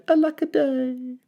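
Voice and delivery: cried. A narrator's reading. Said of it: "he cried".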